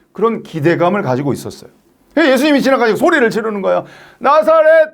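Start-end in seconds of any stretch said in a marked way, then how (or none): 4.2-4.9 high, drawn-out cry; slow, high-pitched call for help; shouting out. Acted. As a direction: yell for Jesus over the crowd. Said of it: "막 소리를 질렀어요".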